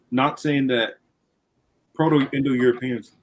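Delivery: talking with something in mouth; words around something in the mouth; mouth full. Real, not acted. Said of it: "something's in my mouth".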